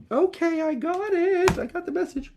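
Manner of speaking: high, loud sarcastic okay; sassy got it; mock exasperated. Real, not acted. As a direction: snap back at the voice in your head. Sarcastic reply to inner voice.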